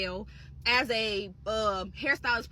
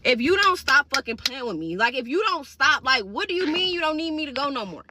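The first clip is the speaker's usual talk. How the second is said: exasperated; 4 dB louder than usual. Retold or imitated. Acted angry comeback to boss.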